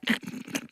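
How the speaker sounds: short, soft snort through the nose; imitated snorting breath. Describing the choking episode to a friend, imitated nose snort. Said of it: "breathe through their nose and it's like".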